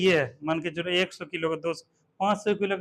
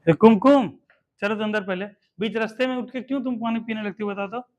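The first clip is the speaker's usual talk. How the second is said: scolding pupil; 4 dB louder than usual. Real, not acted.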